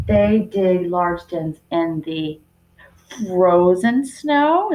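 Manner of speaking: teacher showing the better word; stress on frozen. Shown as a demonstration. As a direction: lean on frozen snow to show it off. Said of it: "Is that descriptive?".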